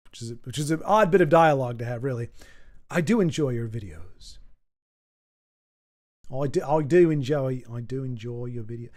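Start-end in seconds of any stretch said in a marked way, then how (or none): 2.9-4.4 low attempted Australian accent; shaky attempt at an Australian accent, pitched down. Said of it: "my Australian accent is usually on point". 6.3-8.9 badly attempted Australian accent, restarting; low, fumbled Australian accent. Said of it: "my Australian accent is usually on point".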